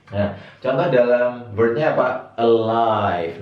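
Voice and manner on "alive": drawn-out 'Alive' with schwa first, uh-LIVE; demonstrated pronunciation. Shown as a demonstration. Teacher gives an example word for reversed E, demonstrated pronunciation. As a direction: model 'Alive' slowly, opening on 'uh'. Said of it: "kalau ada E kebalik bacanya E".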